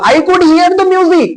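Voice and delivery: teacher modelling English slowly; slow example sentence. Shown as a demonstration. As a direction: lift it up and say it slowly for the class. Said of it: "तब मैं अंग्रेजी में क्या बोलूंगा?".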